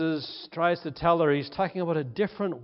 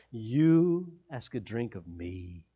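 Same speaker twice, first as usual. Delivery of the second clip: contempt; 7 semitones lower, 5 dB quieter, slower than usual. Acted. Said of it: "You can hear her contempt".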